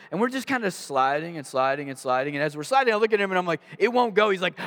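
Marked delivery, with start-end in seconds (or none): 3.8-4.3 raised, high-pitched retold panic yell. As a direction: re-enact yelling at a friend in the car. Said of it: "we're yelling at each other".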